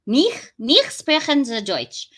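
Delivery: corrected German. Shown as a demonstration. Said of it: "Nach sprechen den Deutsch".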